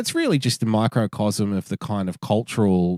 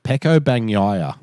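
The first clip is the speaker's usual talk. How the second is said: Pecco Bagnaia said slowly, every syllable clear; slower than usual. Shown as a demonstration. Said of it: "I'll slow it down for you".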